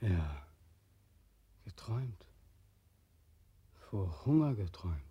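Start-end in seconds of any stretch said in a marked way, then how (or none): 1.6-5.0 whispered, bitter echo; a hushed, bitter repeat. Acted. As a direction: mutter the word under the breath.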